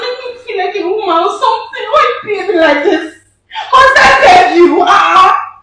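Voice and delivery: high-pitched, loud begging; insistent pleading. Acted. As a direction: whine and plead, pitched well up. Prankster pressing him to give in.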